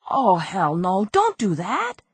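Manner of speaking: high, alarmed crook voice; a scared crook backing off; panicked crook. Acted. Crook begs the detective not to bring the husband, high and panicked.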